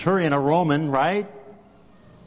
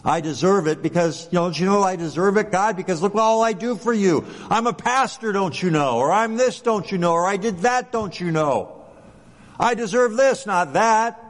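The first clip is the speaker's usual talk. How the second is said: higher, indignant self-important plea; hammed-up entitled complaint to God, pitched up; mock entitled whining; 4 semitones higher than usual. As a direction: play the demanding believer listing his merits. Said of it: "That's like works righteousness".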